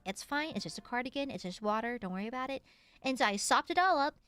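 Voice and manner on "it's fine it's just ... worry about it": reassuring. Acted. Reassuring friend after spill.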